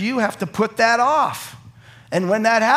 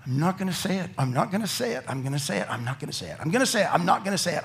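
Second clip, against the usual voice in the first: softer muttered inner struggle; wavering self-talk; 6 dB quieter, much faster than usual. Retold or imitated. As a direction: talk yourself out of it under your breath. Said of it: "putting off".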